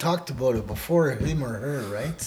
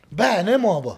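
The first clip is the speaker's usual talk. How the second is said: higher-pitched teaching call with lively swoops; expressive model phrase; 5 semitones higher, 4 dB louder than usual. Shown as a demonstration. Teacher models for learner to repeat, higher expressive delivery. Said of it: "Say it with me".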